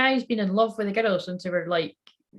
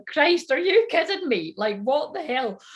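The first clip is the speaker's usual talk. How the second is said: high, disbelieving cry of frustration; exasperated, pitched way up; incredulous outburst; 6 semitones higher than usual. Retold or imitated. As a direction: act out your shock at the ending. Retold outraged reaction to film.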